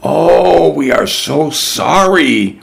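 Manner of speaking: high, pleading apology; sorry and a little sheepish; apologetic Emilio. A narrator's reading. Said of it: "replied Emilio".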